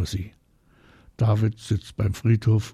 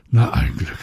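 emphatic, breath-out relief; relieved; 3 semitones lower, 5 dB louder than usual. A narrator's reading. Marie learns Oma Kittel is alive, relieved. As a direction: let the worry go as you speak. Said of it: "sagt Marie erleichtert".

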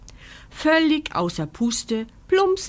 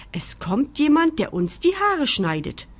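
geduldig; 6 semitones higher than usual. A narrator's reading. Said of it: "erklärt Carla geduldig".

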